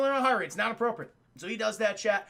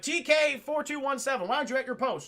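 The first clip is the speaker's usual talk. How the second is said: retold officer; 5 semitones higher than usual. Officer calling a trooper.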